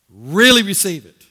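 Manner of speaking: "really" swelling loud, then falling; emphatic, stretched "really"; stress on really. Shown as a demonstration. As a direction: land hard on "really". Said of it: "I want to emphasize this word".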